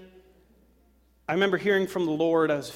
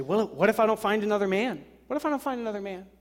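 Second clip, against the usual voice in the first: anxious woman; 6 semitones higher, faster than usual. Retold or imitated. Acted anxious single woman.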